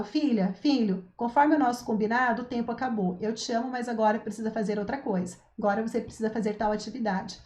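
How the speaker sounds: calm, brief, sure of herself; direct and firm. Shown as a demonstration. Confident mother telling her child that time is up, direct and firm. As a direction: say it plainly and move on, no excuses. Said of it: "Quando eu já chego e falo".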